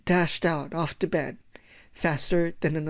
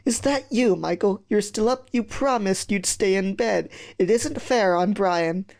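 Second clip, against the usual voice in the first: scolding; 3 semitones higher than usual. Acted. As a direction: reproach a child through the door. Mum scolds Michael through door.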